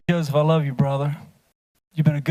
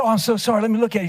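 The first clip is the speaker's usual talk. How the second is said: mock sorry doctor; 7 semitones higher, much faster than usual. A speaker retells how his opponent apologized in mock sympathy. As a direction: ham up the fake concern.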